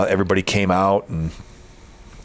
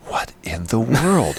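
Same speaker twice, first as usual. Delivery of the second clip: slow, higher-pitched disbelief; retold bewilderment; 4 semitones higher, much slower than usual. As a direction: draw it out in mild mock bafflement. Retelling his own baffled reaction.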